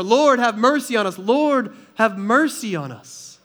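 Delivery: loud begging cry, fading at the end. Retold or imitated. Beggars crying out over the hushing crowd, loud plea. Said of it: "they scream out all the more".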